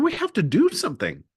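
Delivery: urgent. Retold or imitated. Urging friend to act.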